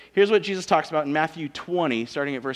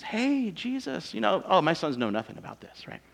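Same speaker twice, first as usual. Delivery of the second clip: mother asking; 4 semitones higher than usual. Retold or imitated. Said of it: "mom goes and asks Jesus".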